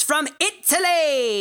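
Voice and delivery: put-on Italy drawn out high in an Italian accent; hammed-up Italian announcer; mock Italian.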